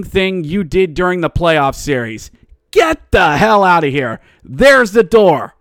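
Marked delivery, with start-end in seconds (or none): 2.7-5.5 mock angry send-off. Kicking the Oilers out.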